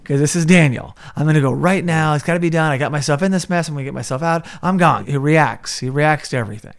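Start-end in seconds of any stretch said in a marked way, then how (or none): 0.0-5.1 rash, urgent insistence. Retold or imitated. Acting out Daniel's rash reaction.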